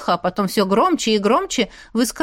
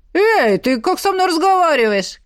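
higher, indignant challenge; offended tsar; 7 semitones higher, 3 dB louder than usual. A narrator's reading. Tsar rebuking the insolent stranger, affronted. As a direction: bristle at the insolence, pitch rising.

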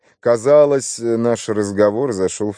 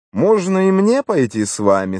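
higher-pitched polite question; eager request; 9 semitones higher than usual. A narrator's reading. Vicar asking to come along, mildly eager. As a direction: lift the voice in a hopeful request. Narrator asks to tag along.

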